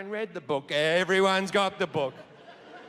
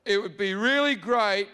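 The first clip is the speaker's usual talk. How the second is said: booming, petulant God, pitched up; a vain God demanding songs, getting shrill; God character; 2 semitones higher than usual. Acted. Comedian voices God at the party.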